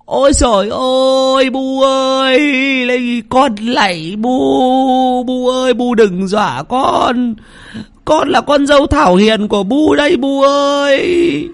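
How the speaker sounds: very high, slow wailing plea; terrified pleading. A narrator's reading. Daughter-in-law begging the ghost not to scare her, wailing. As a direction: beg the ghost for mercy, trembling through it. Wife begs mother-in-law's ghost.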